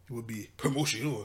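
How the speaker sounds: a mild try at French-accented "promotion"; tentative French accent. Shown as a demonstration. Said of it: "gotta get the French accent down".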